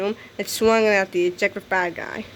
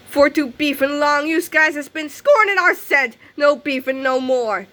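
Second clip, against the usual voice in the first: villain taunt; 4 semitones higher, 4 dB louder than usual. Acted. Villain gloating then crowing.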